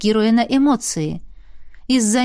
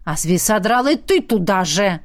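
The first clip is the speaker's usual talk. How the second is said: annoyed bark. Acted. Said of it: "рявкнул голос досадливо".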